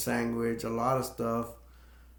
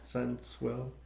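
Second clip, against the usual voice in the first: mock sugary parents; 2 semitones higher, 4 dB quieter, slower than usual. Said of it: "he imitates the parent".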